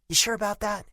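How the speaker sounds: high, pointed doubtful jab; challenging tone. A narrator's reading. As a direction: needle him with the question. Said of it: "I mimicked her tone".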